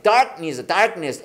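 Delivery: "Darkness" with the K held back, unreleased; silent K. Shown as a demonstration. Teacher shows students how darkness goes, K not released. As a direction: say "darkness" without sounding out the K. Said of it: "K 발음 안 납니다".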